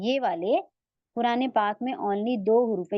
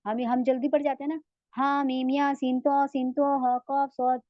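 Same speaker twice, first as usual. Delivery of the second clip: rushed letters; 2 semitones higher than usual. Shown as a demonstration. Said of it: "अब नहीं पढ़ना".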